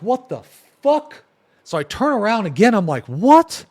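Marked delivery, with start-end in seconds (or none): 0.0-1.2 higher and higher, jumping on fuck; startled outburst. Retold or imitated. Hearing a voice in an empty hallway, startled high outburst. 3.1-3.6 high, loud, rising what; startled what. Retold or imitated. Turning to find nothing, high startled loud what.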